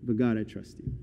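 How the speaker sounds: hushed, low prayer; soft, intimate surrender to God; quiet trust. Acted. Acted prayer turns to trust.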